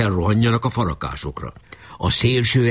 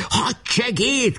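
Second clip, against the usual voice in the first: high, drawn-out summons; long high-pitched cry; calling out; much slower than usual. Acted. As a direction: call for the aide, stretching the word. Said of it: "kiáltotta".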